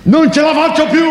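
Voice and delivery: high, thin voice that doesn't match her body; demanding whisky in a thin high voice; Marina's thin voice. Acted. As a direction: squeak it out like a tiny-voiced woman. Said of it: "Una voce che non ci sta mica con quel corpo".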